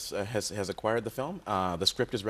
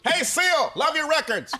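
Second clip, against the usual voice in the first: high voice; 6 dB louder, slower than usual. Acted. Celebrity impression.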